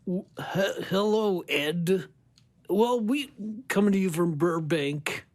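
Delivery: lightly voiced late-night host; easygoing talk-show opener; Johnny Carson impression. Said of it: "Been working on my Johnny Carson impression".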